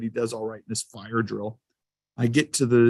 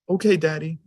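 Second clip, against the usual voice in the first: put-on toddler voice; 4 semitones higher than usual. Dad voicing toddler son.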